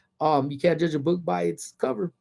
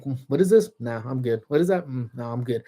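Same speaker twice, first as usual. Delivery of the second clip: picky dismissal. Retold or imitated. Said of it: "a lot of the times I'm like".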